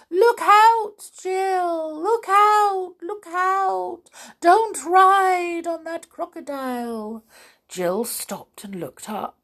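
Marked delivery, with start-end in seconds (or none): 0.1-7.2 very high, loud bird call; urgent bird warning. A narrator's reading. Roly-poly bird circling, calling to Jill high and urgent. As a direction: sing out a frantic warning.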